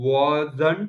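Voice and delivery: slow-motion "wasn't" with the t silent. Repeating the word after the coach asks: slow-motion wasn't, no T. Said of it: "say it in slow motion".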